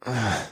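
soft grunt of pleasure; rumbled grunt. A narrator's reading. Husband overcome with pleasure, rumbled groan. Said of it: "I rumbled".

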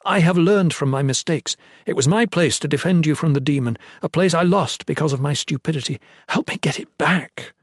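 impassioned appeal for a second chance; pleading. A narrator's reading. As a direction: implore with mounting urgency. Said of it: "he pled".

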